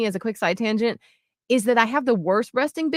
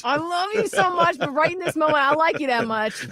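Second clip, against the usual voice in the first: teasing love; 7 semitones higher than usual. Retold or imitated. Joking with wife about annoyance.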